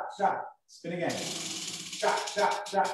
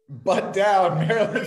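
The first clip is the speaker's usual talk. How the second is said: coach yell; 8 semitones higher, 7 dB louder, slower than usual. Real, not acted. Coaching friend's plank form.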